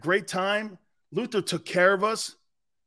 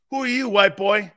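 loud challenge; 2 semitones higher, 6 dB louder than usual. Retold or imitated. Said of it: "teammates challenge him".

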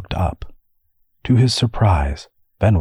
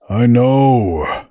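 higher, drawn-out "I know"; mildly exasperated, pitched up; exasperated admission; 5 semitones higher, 4 dB louder than usual. A narrator's reading. Scolded brother admits his folly, exasperated.

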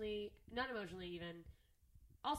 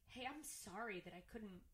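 crying; 2 semitones lower, 8 dB quieter, slower than usual. Real, not acted. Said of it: "Oh, shit, I'm crying".

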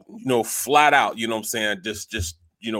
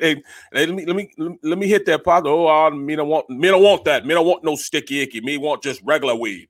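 higher, animated imitation of Jamaican patois; Jamaican accent; 4 semitones higher than usual. Friend imitates frat brother with his pops, Jamaican accent. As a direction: put on a lively Jamaican accent. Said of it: "he pure Jamaican".

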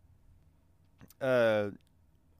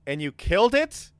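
astonished, louder question; surprised; 8 semitones higher, 6 dB louder than usual. Acted. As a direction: gasp out the question.

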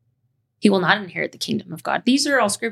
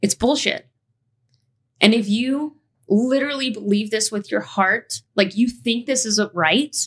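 frustrated anger; 3 semitones higher than usual. Real, not acted. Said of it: "express my anger and frustration".

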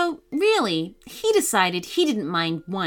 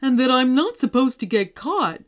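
lightly voiced earnest monster; cautioning monster. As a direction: warn the children as a worried, friendly monster. Monster lays down rules.

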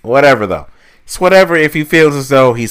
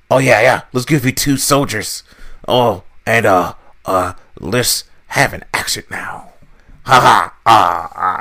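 mock clueless boss; 2 semitones lower than usual. Imitating the boss Vince.

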